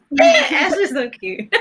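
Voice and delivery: laughing. Real, not acted. Laughing at a sweet moment.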